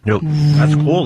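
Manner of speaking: teasing. Real, not acted. Teasing delight.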